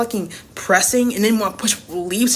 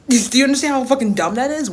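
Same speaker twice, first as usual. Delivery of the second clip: laughing in disbelief; 5 semitones higher, 3 dB louder, faster than usual. Real, not acted. Ranting about his religious pressure.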